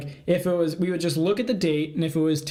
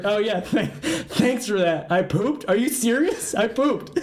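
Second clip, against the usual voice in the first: mock indignant friend; 4 semitones higher, slower than usual. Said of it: "He's like".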